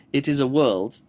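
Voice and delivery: imitated narrator's premature full stop; pause after phrase. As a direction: stop after WORLD as if the sentence were done. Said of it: "he'll say something and he'll pause".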